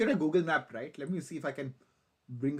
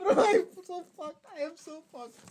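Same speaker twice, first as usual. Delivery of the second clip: higher and louder, giddy exclaim; loud giddy despair; 13 semitones higher, 6 dB louder than usual. Real, not acted. Streamer laughing at his own blunder, loud giddy cry. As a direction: blurt it out half-laughing. Repeats the phrase.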